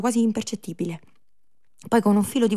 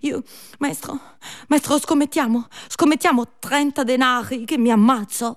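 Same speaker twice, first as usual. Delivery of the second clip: desperate pleading; 4 semitones higher, 5 dB louder than usual. Acted. Desperate plea, building louder.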